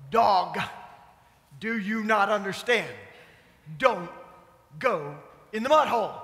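a mild scold, lightly voiced; fussing at the dog. Owners fussing at the muddy dog, mild scold. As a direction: tell the dog off, half-hearted. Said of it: "We fuss".

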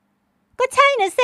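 high, loud, very slow snap; shrill young woman. A narrator's reading. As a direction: pitch it sharply high in defiance. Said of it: "น้ำเสียงสูงปรี๊ด".

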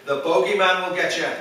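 imitated cross Irish mum's warning; mildly angry telling-off, put on; angry Irish mother. Irish mum warns her son to stay in bed, mock-angry. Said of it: "she got really angry and said".

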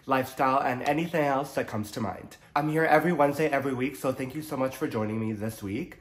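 stuffy nose from allergies; nasal, blocked-up voice. Real, not acted. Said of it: "If I sound a little nasally".

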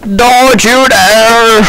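put-on high, slow old man scolding; old man acting. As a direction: warn them like a hammy old man. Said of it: "like, an old man acting".

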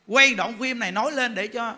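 ordinary delivery

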